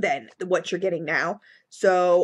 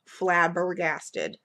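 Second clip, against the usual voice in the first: savoring the word; much slower than usual. Real, not acted. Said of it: "I did say flabbergasted".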